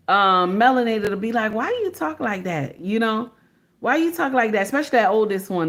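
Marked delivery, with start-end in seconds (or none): 1.5-2.8 high, quiet-ish mock of kids' teasing. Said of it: "They'll be clowning her". 3.8-4.6 higher-pitched imitation of teasing kids; mocking. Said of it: "They'll be clowning her".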